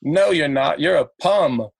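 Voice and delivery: imitating an accented heckler; Arnold Schwarzenegger. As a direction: contradict him in a light Arnold-style accent. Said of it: "Arnold Schwarzenegger".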